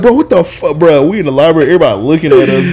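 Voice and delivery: high, loud mock scolding; exasperated protest. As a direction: act out embarrassed, urgent pleading to cut it out. Acted exasperated reply to excited brother.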